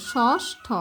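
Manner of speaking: ষষ্ঠ split as "shosh... tho"; careful teacher's "shosh-tho"; sounded-out conjunct. Shown as a demonstration. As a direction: say ষষ্ঠ with sh first, then tho. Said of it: "প্রথমে উচ্চারণ করবা মূর্ধন্য স".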